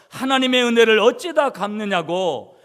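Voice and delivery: imitating a leper praying through tears, fading at the end; weeping prayer. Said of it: "울면서 기도를 하고 있더라는 거예요". (울부짖듯 크게 흉내 낸 기도)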